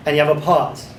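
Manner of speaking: ordinary talk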